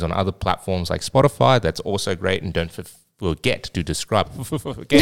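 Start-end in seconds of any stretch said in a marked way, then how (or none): 4.3-5.0 laughing. Real, not acted. Laughs at own slip.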